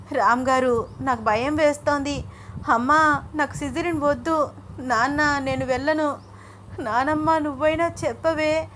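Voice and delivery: high-pitched, frightened wail, lightly acted; tearful pleading. A narrator's reading. Wife begs family against surgery, tearful pleading. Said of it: "అంటూ ఒకటే ఏడుస్తోంది".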